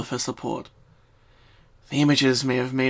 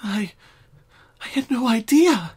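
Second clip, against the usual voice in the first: said shakily; 9 semitones higher, 5 dB louder than usual. Acted. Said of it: "she said shakily".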